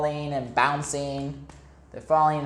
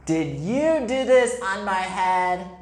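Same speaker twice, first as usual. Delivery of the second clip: mole asking; 3 semitones higher than usual. Acted. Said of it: "he asked the goat".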